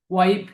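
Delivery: ওয়াইপ ending on a crisp p, not f; p sound. Shown as a demonstration. Teacher shows learners the sound, ওয়াইপ with a final p. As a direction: close the lips for the final p in ওয়াইপ. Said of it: "ফি এর উচ্চারণটা করতে হবে".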